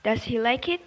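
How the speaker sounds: "does he like it?" rising on it; yes-no question with a rising end; rising tune. Shown as a demonstration. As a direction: lift the voice on the final word. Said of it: "list up at the end".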